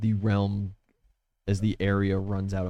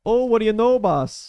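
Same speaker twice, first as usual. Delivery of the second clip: gruff soldier voice; 11 semitones higher, 5 dB louder than usual. Acted. NPC answering in a voice.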